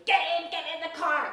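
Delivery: mock shriek. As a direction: shout it fast like frantic parents on the phone. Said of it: "now they're shrieking".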